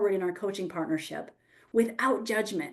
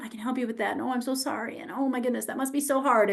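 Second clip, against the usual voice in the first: mock over-sympathetic; 3 dB quieter, faster than usual. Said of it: "overtaking responsibility for the emotion".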